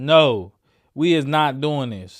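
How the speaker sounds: ordinary talk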